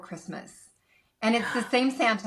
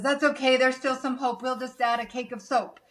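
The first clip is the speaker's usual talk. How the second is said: cheerful Santa; 4 semitones higher than usual. Retold or imitated. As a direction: reassure the elf like a merry Santa. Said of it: "Santa says".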